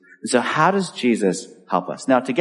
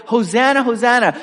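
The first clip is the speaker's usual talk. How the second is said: crowd shouting; 8 semitones higher than usual. Retold or imitated. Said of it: "they're shouting".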